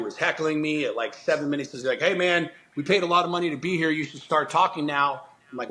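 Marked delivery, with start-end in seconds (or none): 2.0-5.2 higher, fast impatient heckler; lightly voiced pushy heckler; mock heckler. Heckler complaining during silent talk.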